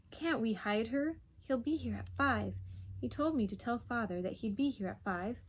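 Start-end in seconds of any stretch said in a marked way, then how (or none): 0.1-2.5 put-on slightly raised boyish appeal; pleading. Boy asks mother to hide the dog, pleading. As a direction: press her for help. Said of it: "the boy pleaded".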